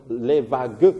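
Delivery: "les va-GUE", slowly, with the last e pronounced; final GUE sounded. Shown as a demonstration. Teacher showing a student where the line ends, sounded final -gue in "les vagues". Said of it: "c'est gue la fin".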